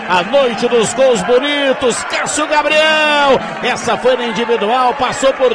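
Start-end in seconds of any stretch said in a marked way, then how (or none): 0.1-3.4 goal celebration. Real, not acted.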